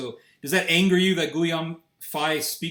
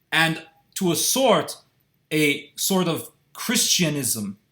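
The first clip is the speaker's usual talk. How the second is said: put-on French accent; 3 semitones higher, slower than usual. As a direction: imitate his big French accent, mockingly.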